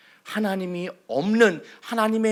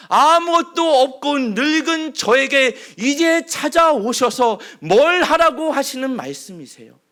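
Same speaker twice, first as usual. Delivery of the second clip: Moses' complaint; 4 semitones higher, 4 dB louder than usual. Acted. Moses pours out his grievance to God, rising to a loud protest. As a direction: pour out forty years of grievance at God. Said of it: "모세는 사실 이 이야기를 하나님께 쏟아내는".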